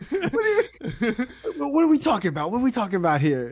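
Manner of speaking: high, laughing disbelief. Real, not acted. Reacting to the weird voicemail, laughing in disbelief. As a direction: laugh through the words in disbelief.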